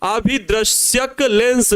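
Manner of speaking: अभिदृश्यक लेंस said slowly, each syllable clear; slow, spelled-out term. Shown as a demonstration. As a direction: drag out अभिदृश्यक लेंस so pupils catch it. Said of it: "क्या बोलेंगे?". (अभिदृश्यक लेंस धीरे-धीरे, साफ़ बोलें)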